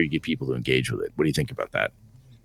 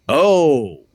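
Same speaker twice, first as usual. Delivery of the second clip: dawning realisation; 8 semitones higher, 6 dB louder than usual. Retold or imitated. Son suddenly gets it, acted.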